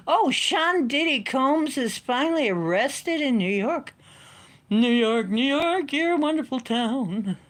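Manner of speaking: high, loud manic rapid voices; hyper Robin Williams riff. Pretend. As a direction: burst out in manic comic voices. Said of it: "Robin Williams channels through sometimes when I get hyper".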